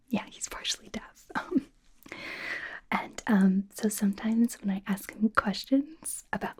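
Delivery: chatty half-whisper, as in ASMR. Real, not acted. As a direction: confide it in a hushed whisper. Holds a whisper throughout the chat.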